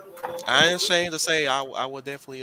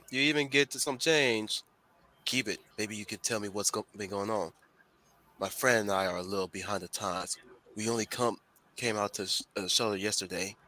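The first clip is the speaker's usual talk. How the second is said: non-hiding federal agent; 2 semitones lower than usual. Acted. Agent fishing for news in a bar, lightly voiced federal agent. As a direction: play an obvious undercover fed, lightly. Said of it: "best non-hiding federal agent voice".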